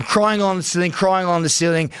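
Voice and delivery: a touch of frantic urgency; retold panic. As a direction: relive the scramble, quick and high. Retelling frantic crawl while panicking.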